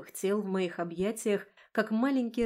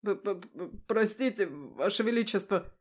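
stammering fright. A narrator's reading. Scared youth before the queen.

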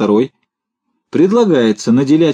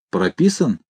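stern; 2 semitones lower, 3 dB quieter, slower than usual. A narrator's reading. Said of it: "строго спросил Хлебоводов".

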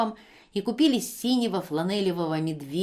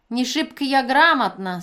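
conciliatory; 6 semitones higher, 8 dB louder than usual. Acted. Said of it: "сказала она примирительно".

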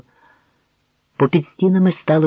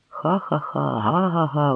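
mocking guests' laughter; a quick breathy chuckle; guests laughing; 3 semitones higher, 4 dB quieter, slower than usual. A narrator's reading. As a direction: crowd chuckling at the boyar. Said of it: "Гості у світлиці заусміхались".

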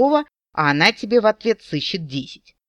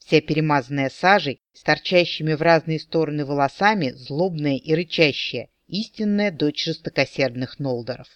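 ordinary delivery, nothing marked

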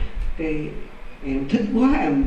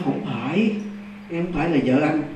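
quiet imitation of a possessed wife; not a normal voice; 6 dB quieter than usual. Possessed wife denying she is his wife, oddly quiet. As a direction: say it softly, held back behind the teeth. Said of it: "không phải cái kiểu mà nói bình thường".

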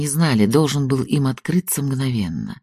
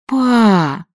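high moaning cry of Papa; moaning plea; 9 semitones higher, 4 dB louder than usual.

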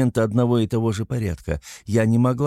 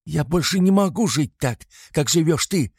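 desperate shout; 8 semitones higher than usual. A narrator's reading. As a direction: scream it out in despair. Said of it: "крикнула я в отчаянии". (крик отчаяния)

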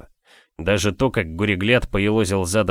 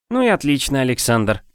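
blissfully smiling; 4 semitones higher than usual. Acted. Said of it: "блаженно улыбаясь".

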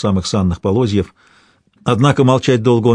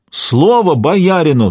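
slower, drawn-out repeat of the high, loud cry on Слово; ringing call, even slower; 7 semitones higher, 3 dB louder, slower than usual. A narrator's reading. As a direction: hold the repeat longer, begging. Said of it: "звонко выкликивая".

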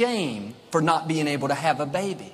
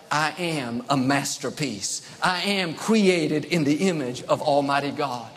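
confident declaration; 2 semitones lower than usual. Shown as a demonstration. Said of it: "dare to get up in the morning and say".

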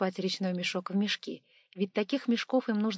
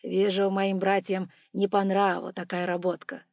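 gloating; 5 dB louder than usual. Acted. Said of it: "произнёс с явным удовольствием".

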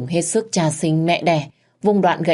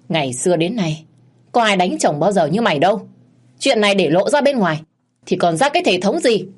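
1 stern scolding; 3 semitones higher than usual. Acted. Father-in-law scolds the wife.

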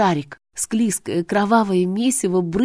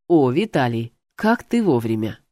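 demon boss voice; 5 semitones lower than usual. Acted. Demon boss greets Vitaly.

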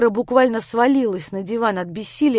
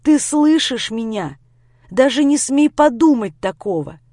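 firm outcry; 2 semitones higher, 5 dB louder than usual. Acted. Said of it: "выкрикнул я".

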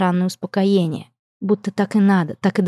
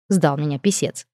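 usual speaking voice

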